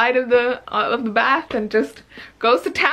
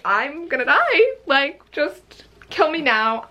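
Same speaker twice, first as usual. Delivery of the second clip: mock dying fangirl; 5 semitones higher, slower than usual. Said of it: "And I was like".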